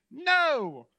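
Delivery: fisherman's fed-up reply; curt answer. Acted. Weary fisherman answers the man on the bank, curt.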